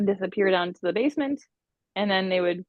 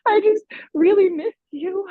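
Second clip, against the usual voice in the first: higher and louder, voice cracking with longing; tearful plea; 11 semitones higher, 7 dB louder than usual. Retold or imitated. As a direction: let the wall collapse, pleading through tears. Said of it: "And I just started crying".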